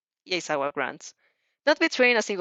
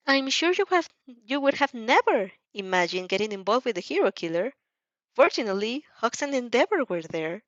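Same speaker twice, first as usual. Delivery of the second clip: Nezu voice; 2 semitones higher than usual. Acted.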